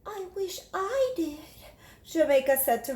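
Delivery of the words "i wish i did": put-on young girl voice. Jamaica telling her teacher, in a little girl voice. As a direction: speak up brightly as a small child.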